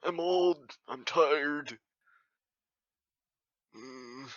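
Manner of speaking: put-on weary elder voice; old, tired character. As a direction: grumble it like a worn-out old-timer. Old character sitting at bar.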